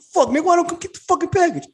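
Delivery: put-on a grouchy neighbor griping at the kid; grumpy older man. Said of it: "nigga walk up to the car".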